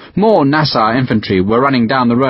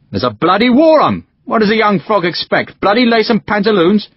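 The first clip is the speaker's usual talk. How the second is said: exasperated scoff; 9 semitones higher than usual. Acted. Sharpe to Doggett, scornful about the Prince's ball. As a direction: sneer at the idea of a ball.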